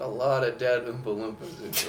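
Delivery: ordinary delivery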